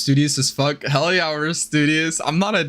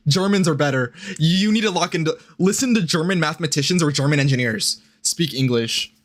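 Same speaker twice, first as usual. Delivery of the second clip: lightly put-on German accent; comic touch of a German accent; mock German accent. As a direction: lecture in a faint German accent. Continues the German bit.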